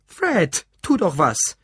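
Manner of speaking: loud, high desperate appeal; pleading. A narrator's reading. Mother begging her husband to intervene, pleading. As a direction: implore him to step in. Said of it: "fügte sie flehend hinzu".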